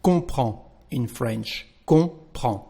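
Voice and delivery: comprend said kɔ̃pʁɑ̃ with no final consonants; French comprends without D or S; silent D and S. Shown as a demonstration. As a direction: end comprend on the nasal vowel. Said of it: "so we just say".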